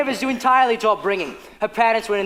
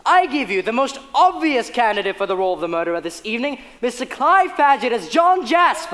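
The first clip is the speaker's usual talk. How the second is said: put-on booming old melodrama narrator. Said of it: "We will ruin your evening".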